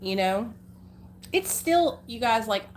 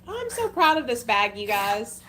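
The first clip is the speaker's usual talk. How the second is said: proud; 2 semitones higher than usual. Real, not acted. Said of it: "I had to show you guys".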